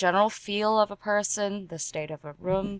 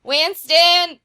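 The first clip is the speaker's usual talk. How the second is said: louder psychic calling her bird; character voice; 3 semitones higher, 5 dB louder than usual. Pretend. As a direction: call out for the bird. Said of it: "She's like".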